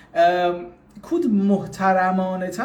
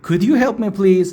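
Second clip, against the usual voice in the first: slow model with "Could"; slow could version; 5 dB louder, much slower than usual. Shown as a demonstration. Teacher contrasting "Could" with "Can". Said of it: "چرا could آوردم".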